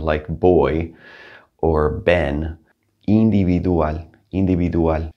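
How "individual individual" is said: individual in Spanish, V as soft B; individual, Spanish vowels and a softened B for V. Shown as a demonstration. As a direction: say individual as "een-dee-bee-doo-al". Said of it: "has kind of a soft B sound".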